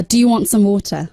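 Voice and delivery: demonstrating British English intonation; British-accented sample phrase. Shown as a demonstration. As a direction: say it with a British lilt. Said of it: "it was about intonation of British English".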